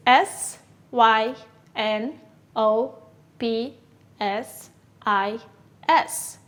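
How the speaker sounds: slow letter-by-letter spelling; careful dictation pace. Shown as a demonstration. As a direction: spell each letter apart for the class. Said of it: "How do you spell it?".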